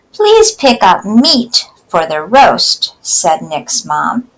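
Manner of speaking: put-on slow, clear poem reading for kids; slow read-aloud. Teacher reading a poem slowly to children.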